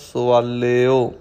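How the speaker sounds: ਸੁਆਲਿਓ slowly, weight on the l, "su-aal-lio"; slightly heavy l. Shown as a demonstration. Teacher explains the mark, ਸੁਆਲਿਓ with a weighted l. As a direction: lean a little on the l of ਸੁਆਲਿਓ. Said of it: "ਥੋੜ੍ਹਾ ਜਿਹਾ ਭਾਰਾ ਕਰਕੇ ਬੋਲਾਂਗੇ".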